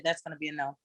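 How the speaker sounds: a firm, unbending no. Retold or imitated. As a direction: shut it down flat and firm. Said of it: "a strong no".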